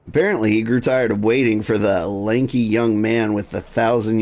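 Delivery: fretful quest giver, then recovering; lightly voiced anxious official; worried NPC. NPC dialogue read aloud.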